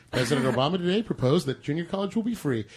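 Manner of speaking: lightly played news anchor read; newscaster accent. Anchor reporting the President's proposal, understated newscaster delivery. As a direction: read it out like a TV newscaster, setting up the name. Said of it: "it's the newscaster accent".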